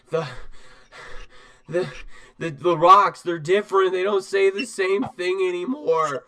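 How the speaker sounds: put-on high, loud winded boy; out of breath, panting. Small knight reporting to Vigilwreath, out of breath and panting. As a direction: stammer the first word, then push the news out high. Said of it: "out of breath and panting".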